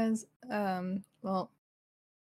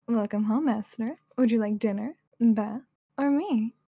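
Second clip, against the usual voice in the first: anime maid voice; 4 dB louder than usual. Acted. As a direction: greet like a shy anime maid. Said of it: "I can try to say that".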